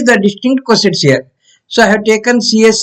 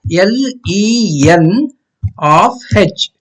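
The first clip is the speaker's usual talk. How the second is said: dictating; much slower than usual. Shown as a demonstration. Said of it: "that is slash".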